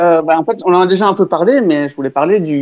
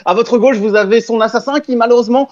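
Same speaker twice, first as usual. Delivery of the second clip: frantic mock sports commentary; 5 semitones higher than usual. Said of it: "je passais en mode commentateur sportif".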